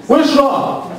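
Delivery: high, slow drawn-out call for Shalom; mother hollering for her son. Retold or imitated. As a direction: call him like a fed-up mother down the hall.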